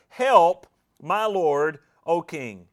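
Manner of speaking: retold cry for help, loud on Help. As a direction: call up to the king, word by word. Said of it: "she cries out".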